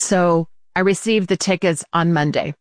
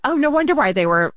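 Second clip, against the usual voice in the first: higher retold realization; imitating security guard again; 8 semitones higher than usual. Boss retelling the guard's reaction, higher imitated voice. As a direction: echo the guard, a lighter higher voice. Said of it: "It was so cute".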